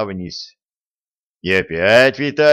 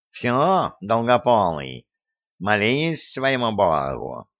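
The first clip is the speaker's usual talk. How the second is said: gleeful villain; slower than usual. Acted. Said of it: "радостно сказал Васька".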